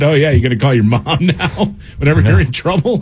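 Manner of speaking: taunting, laughing through it; mocking coworker. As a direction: tease him like a coworker.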